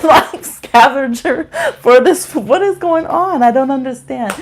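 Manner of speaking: high, loud, exasperated rant; worked up and baffled, voice climbing; exasperated disbelief. Real, not acted. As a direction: drag out the words in outraged bafflement. Ranting about food left outside.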